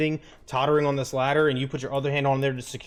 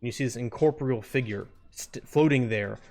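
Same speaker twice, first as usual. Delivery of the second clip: game master narration. Acted. Game master introducing a new player to the scene, measured narration.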